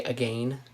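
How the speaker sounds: "again" said to rhyme with rain; rhyming old-style pronunciation. Shown as a demonstration. Explaining Shakespearean speech to viewers, rhyming pronunciation. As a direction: say "again" with a long AY in the second syllable. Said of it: "to try to make it rhyme".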